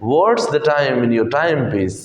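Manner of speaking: very slow, every word spaced out; slow teacher demo; slow model question. Shown as a demonstration. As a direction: drill it slowly for the class. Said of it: "time piece बोलने की आदत डालनी है".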